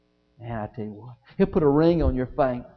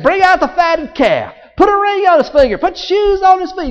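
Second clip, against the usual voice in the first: high, ringing proclamation; jubilant command; 11 dB louder than usual. Acted. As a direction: call out the celebration orders. Father orders a celebration.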